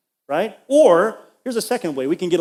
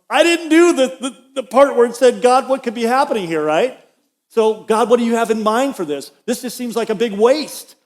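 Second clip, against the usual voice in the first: raised preaching voice; 5 semitones higher, 4 dB louder than usual. Real, not acted. Preacher admitting he didn't pray.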